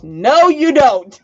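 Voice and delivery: slow, drawn-out scolding no; mock Bossy. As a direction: drag it out like a stern friend. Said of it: "this is the cue where Bossy goes".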